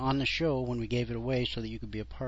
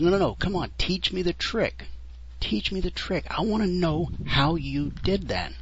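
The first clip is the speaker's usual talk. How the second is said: put-on pleading kid; 6 semitones higher than usual. Apprentice begs for the trick.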